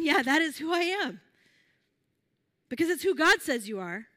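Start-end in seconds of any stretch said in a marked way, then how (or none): 0.0-1.2 higher-pitched, lightly acted self-affirmation; affirming reaction. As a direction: voice a listener's emphatic agreement. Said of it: "Is your initial reaction".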